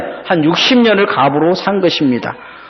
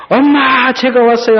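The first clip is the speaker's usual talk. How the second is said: high, raised call for Mom; acted-out cry to someone inside the house; calling out loudly; 9 semitones higher than usual. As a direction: call out again, pitched way up. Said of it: "다시 크게 소리를 지릅니다".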